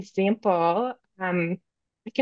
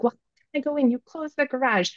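put-on upset kid; 4 semitones higher than usual. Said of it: "starts getting upset and is like".

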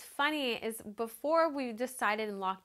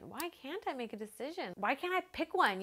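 higher-pitched, mildly exasperated questioning; exasperated self-questioning; 5 semitones higher than usual. Retold or imitated. Bride asking herself all night about deciding, mildly exasperated. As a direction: push each why a little higher.

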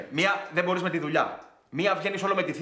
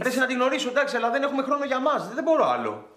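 raised-pitch whiny objection; whining protest; 6 semitones higher than usual. Acted. Partner wants time for the couple, whining. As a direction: protest in a higher, complaining voice. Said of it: "μην κρινιάζεις".

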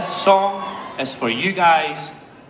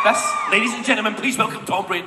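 mock announcer; 4 semitones higher than usual. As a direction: announce him like a headliner. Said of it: "No, I'm joking".

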